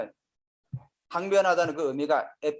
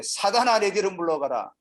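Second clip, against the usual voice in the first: Jesus, rebuking; 2 semitones higher than usual. Acted. Preacher reading Jesus turning on Peter, rebuking. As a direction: call out a mild acted rebuke. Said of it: "베드로를 꾸짖으되".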